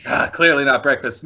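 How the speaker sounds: sighed answer, short of a yell; not quite yelling. Shown as a demonstration. Player shows game master the captive's tone, not yelling. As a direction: show the tone, stopping short of yelling. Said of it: "I didn't yell this time".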